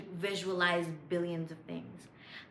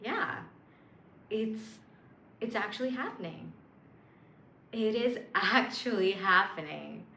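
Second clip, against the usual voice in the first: smug joy. Shown as a demonstration. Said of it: "bring that smug smile".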